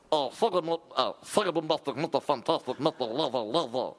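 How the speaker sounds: amateur go at a reggae star; a reggae singer. Acted. Host tries the impression for co-host, rough reggae-singer voice. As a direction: mangle the catchphrases in a put-on voice. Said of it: "I think I could do him".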